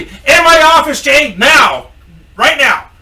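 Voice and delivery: high, loud mock shout; hammed-up yelled command from the boss; angry boss. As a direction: bellow the order, cutting off argument. Boss repeats order shouting.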